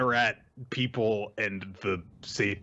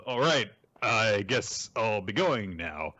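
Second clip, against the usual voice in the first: slow, drawn-out reluctant reply; mildly acted hesitation; retold awkward exit; slower than usual. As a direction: drag it out as if unsure whether to leave.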